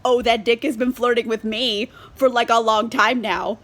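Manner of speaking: inner fury. Retold or imitated. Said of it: "an apoplexy inside".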